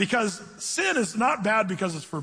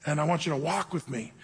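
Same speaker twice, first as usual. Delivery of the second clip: softer, gentle fatherly reassurance; a lightly voiced tender God, speaking softly; loving; 5 semitones lower, 5 dB quieter than usual. God answering his church, softer and gentle. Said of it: "God would lovingly say".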